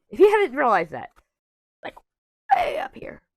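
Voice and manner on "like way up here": breathy whisper, voice cracking. Mid-explanation to the others, the speaker's voice cracking. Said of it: "My voice just cracked".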